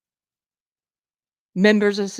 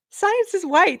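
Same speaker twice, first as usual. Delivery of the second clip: much higher mock voice, parroting the claim; high, incredulous mimicry of what they teach; mocking echo; 12 semitones higher, 4 dB louder, slower than usual. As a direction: echo the claim back in a high, sneering pitch. Repeats the claim in mockery.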